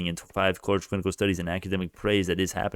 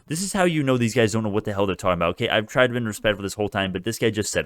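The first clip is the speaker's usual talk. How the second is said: ordinary talk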